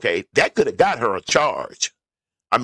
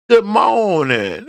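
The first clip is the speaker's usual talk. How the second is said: slow, higher drawn-out Southern Alabama greeting; 5 semitones higher, slower than usual. Shown as a demonstration. Vlogger greeting viewers in a Southern Alabama voice. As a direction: greet them in a sweet Southern Alabama accent. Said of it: "In my Southern Alabama voice".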